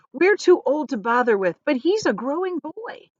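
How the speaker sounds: a lightly voiced old man pressing his worry, pitch climbing; worried grandpa. Worried grandfather pleads for boy.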